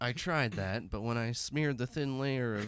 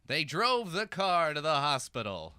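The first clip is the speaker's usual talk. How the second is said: narrator voice; 2 semitones higher than usual. Acted. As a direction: narrate like a movie trailer. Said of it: "Nar-, narrator voice".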